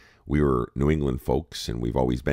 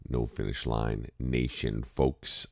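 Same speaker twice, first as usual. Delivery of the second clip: morning voice; slower than usual. Real, not acted. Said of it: "I've got my morning voice going".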